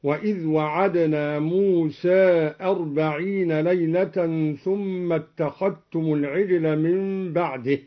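"وعدنا" with short wa, "اتخذتم" said as ittakhattum; measured verse demonstration, "اتخذتم" with no separate dhal sound; dhal merged into ta. Shown as a demonstration. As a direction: recite "اتخذتم" with the ذ assimilated into a doubled ت. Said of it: "وإدغام الذال في التاء هكذا".

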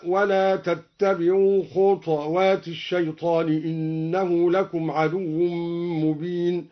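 خطوات read khuṭwat with the ṭa stilled; slow recitation of خطوات in two syllables. Shown as a demonstration. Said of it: "سكن الدوري الطاء هكذا".

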